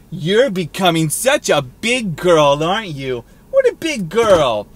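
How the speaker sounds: put-on a slow, light baby-talk coo. Man lightly baby-talking his girlfriend, slowly. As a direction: mildly coo it like praising a toddler. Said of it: "Never say that to your girlfriend".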